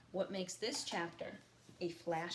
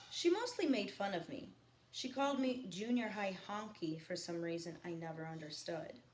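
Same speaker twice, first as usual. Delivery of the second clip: reading a novel aloud to the class; lightly paced read-aloud, each line set down; reading a novel to students; story narration; 3 dB louder than usual. A narrator's reading. Teacher reads novel aloud to class.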